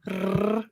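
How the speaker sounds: trilled rrr sound; a long rolled R. Shown as a demonstration. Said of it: "Can y'all roll your R's?".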